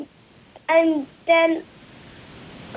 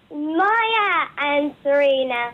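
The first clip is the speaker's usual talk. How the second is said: laughing; slower than usual. Real, not acted. Giggling child repeats friends' names.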